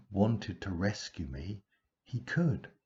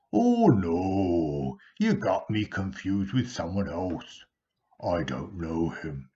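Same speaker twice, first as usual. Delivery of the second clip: louder, hurried nervous Peter; blurted denial; 8 dB louder than usual. Acted. Peter nervously denying Jesus to servant, blurted louder. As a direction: blurt it out, trying to brush it off. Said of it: "he blurted out".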